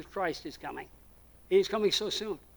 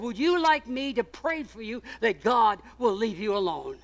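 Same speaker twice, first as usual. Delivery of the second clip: gentle pastor question; 2 semitones higher, 4 dB louder than usual. Retold or imitated. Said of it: "I said".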